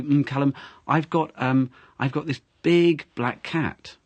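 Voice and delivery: big punched out, words slowed down; stress on big. Shown as a demonstration. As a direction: hit the word big hard. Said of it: "'cause you stressed big".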